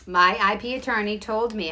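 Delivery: blurting it out before reining it in; agitated outburst; heated. Real, not acted. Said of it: "I'm gonna say this as calmly as possible".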